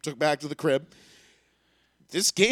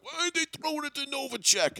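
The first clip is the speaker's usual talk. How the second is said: retold yell; 8 semitones higher, 4 dB quieter than usual. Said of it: "somebody yell at the T V".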